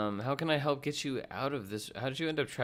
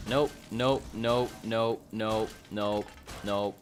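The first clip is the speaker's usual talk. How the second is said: loud, clipped nopes fading; loud repeated nope; 4 dB louder, much slower than usual. Real, not acted. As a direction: refuse it over and over.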